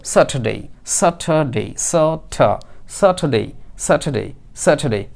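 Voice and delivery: "স্যাটারডে" as sat-ha-day, r left silent; model pronunciation. Shown as a demonstration. Teacher drilling the word for learners, model pronunciation. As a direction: drill "স্যাটারডে" over and over, each with a falling end. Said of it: "তো আমরা বলবো".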